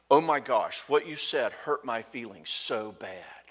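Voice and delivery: blaming complaint. Retold or imitated. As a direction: accuse the husband of hurting her. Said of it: "do you hear the blame".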